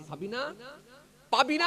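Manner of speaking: rising to a high, loud shout on পাবি না; loud call. Retold or imitated. Father calling near the angry fisherman, shouting loudly. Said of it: "বলে জোরে দিয়েছে".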